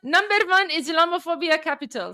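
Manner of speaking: lightly put-on accent heard as Indian; mild Indian-like accent; Indian-sounding accent. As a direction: attempt at Persian, landing as Indian accent. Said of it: "why do you do an Indian accent".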